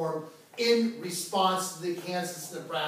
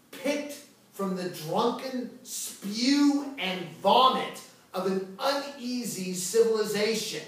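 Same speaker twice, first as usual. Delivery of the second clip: quoted denunciation; 5 semitones higher, 3 dB louder, slower than usual. Retold or imitated. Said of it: "points to the senator from South Carolina and says".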